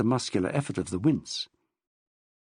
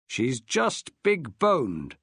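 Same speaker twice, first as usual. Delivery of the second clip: grunted; much slower than usual. Acted. Dad to his son about Pansy, grunting slowly. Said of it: "Maxwell grunted".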